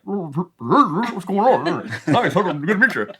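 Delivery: high, loud eager greeting with a laugh; overexcited greeting. Retold or imitated. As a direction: gush the hello like a keen stranger. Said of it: "He's like".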